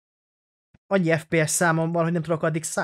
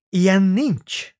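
stunned disbelief; 5 semitones higher, 7 dB louder, much slower than usual. Real, not acted. Gift doll turns out to be him.

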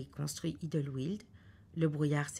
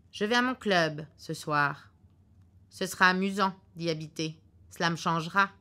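gruff husband; 6 dB louder than usual. Acted. Husband in the car predicting a cancelled flight, curtly sure. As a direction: lay out the bad news like a know-it-all husband.

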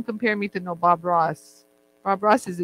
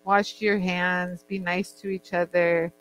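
quoting Francesca; 4 semitones lower, 4 dB quieter, slower than usual. Retold or imitated. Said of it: "a nice little thing she says".

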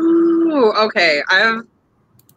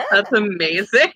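laughing; 6 semitones higher than usual. Real, not acted. Laughs at the joke.

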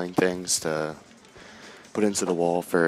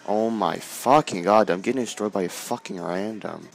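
exasperated yell; 3 semitones higher, 4 dB louder than usual. Real, not acted. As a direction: yell it out, fed up with losing. Gamer raging at a random.

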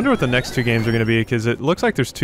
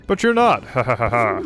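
mock villain taunt. Guard taunts, then laughs.

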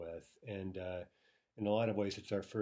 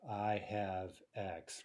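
slow quoted idiom; much slower than usual. Shown as a demonstration. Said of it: "idiom of".

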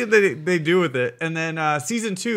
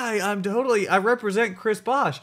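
bluffing claim; 6 semitones higher than usual. Acted. Acting pirates' bluffing claim.

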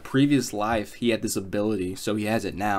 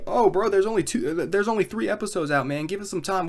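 lightly voiced fan, pitched higher; mocking a fan; 8 semitones higher than usual. Imagined fan pushing back at the reviewer, mild mock whiny voice. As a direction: mimic a defensive fan. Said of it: "you could say to me".

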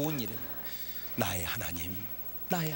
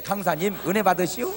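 slow Chungcheong drawl; 3 semitones lower than usual. Retold or imitated. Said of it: "느려, 확실히 느려".

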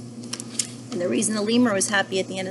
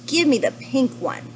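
lightly voiced pushy penguin, a bit higher; demanding penguin; 5 semitones higher than usual. Penguin demands a donut from Mister Panda, demanding. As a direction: demand it like a greedy storybook penguin.

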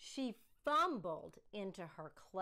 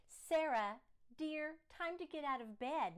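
father's call; 6 semitones higher, 3 dB louder than usual. Acted. Father waking daughter.

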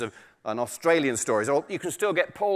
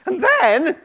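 high, loud triumphant squeak; muskrat voice; 13 semitones higher, 11 dB louder than usual. Acted. Muskrat ending the story for the tiger, high loud squeal. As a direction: build to a big loud reveal. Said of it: "said the muskrat".

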